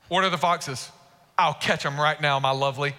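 a hint of a smooth lover, pitched low; love voice. Guy answering his beloved about the foxes, light love voice. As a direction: lightly put on a low, romantic suitor's voice. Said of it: "you read it like your love voice".

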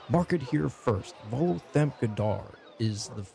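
measured, lightly booming proclamation; booming announcement. Acted. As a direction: announce it to a crowd. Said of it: "a loud booming voice comes out over the crowd".

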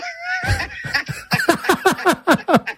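loud, high staccato cackle; Transylvanian cackle. Acted. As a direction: cackle like a vampire. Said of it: "a Transylvanian intro, like we're back from the dead".

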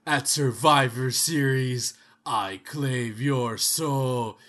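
very slow ominous promo; Undertaker voice. Pretend. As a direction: drag out each word like the Dead Man. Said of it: "a Undertaker versus Pennywise match".

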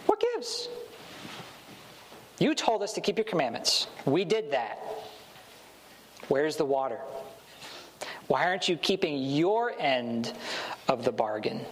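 lightly voiced grumbling crowd, demanding; indignant Israelites. Israelites confronting God over the missing water, a mild mock complaint.

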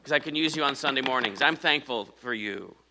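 mock praise to an object; sarcastic thanks to the pulpit; mock gushing to a pulpit. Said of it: "I'm not thankful for, to this pulpit".

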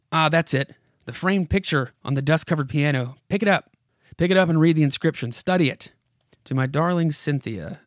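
dramatic comic-book narrator addressing a character; story narration. Acted. Narrator urges Mister Lockwood to look around, dramatic narration. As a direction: read it aloud with measured urgency.

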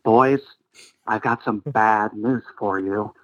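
lightly voiced chipper astronaut caller; a hint of a rambling old caller; Don Pettit impression. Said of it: "lumpy-headed Don called in again".

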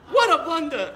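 high, loud Chicago yell; screaming Chicago accent. Retold or imitated. Old man screams into the speaker's face in a Chicago accent. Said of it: "kept screaming into my face".

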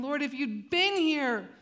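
echoing Mary's words slowly, lingering on been; slow echo of a heart's cry. Shown as a demonstration. Preacher echoing Mary's cry to the congregation, slow and heavy. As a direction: say "Lord, if you'd been here" slowly, leaning into "been". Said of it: "same thing almost".

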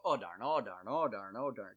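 mock toddler sing-song of oh darn; toddler repeating. Parent imitating daughter chanting the new word. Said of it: "And she'll go".

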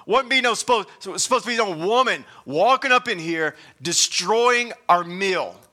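hammed-up indignation at the woman; indignant disciple. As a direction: play the offended guest whose dinner got ruined. Voicing the disgruntled disciples.

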